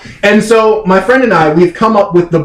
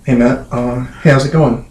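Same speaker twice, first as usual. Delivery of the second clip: 1 sheepish guilty dog; 9 semitones lower than usual. Retold or imitated. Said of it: "You might go".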